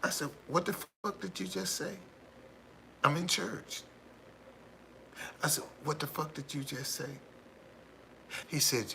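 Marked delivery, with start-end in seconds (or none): 0.5-3.8 high-pitched, incredulous mock reply; retold disbelief. Retold shocked reply in church. 5.8-7.1 higher, incredulous quoted question; retold disbelief. Retold shocked reply repeated.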